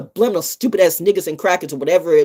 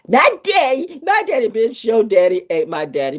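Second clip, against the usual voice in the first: indignant; 4 semitones higher than usual. Real, not acted. Heated retort.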